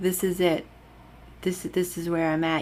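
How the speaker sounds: ordinary talk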